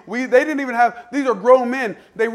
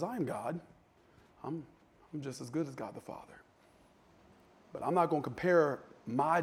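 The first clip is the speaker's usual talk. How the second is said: much softer and lower, unhurried; humble Jesus; 5 semitones lower, 6 dB quieter than usual. Acted. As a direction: speak as a calm, humble son. Voicing Jesus, humble and calm.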